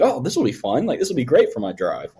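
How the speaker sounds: mildly excited, looking forward to it; retold excitement. Friend retelling his hopes before a drive, mildly excited. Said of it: "and I got so excited".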